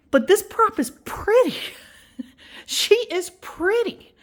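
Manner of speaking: high-pitched, giggly gushing; real high, laughing admiration. Real, not acted. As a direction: gush in delight, pitch leaping up. Gushes over how pretty it is.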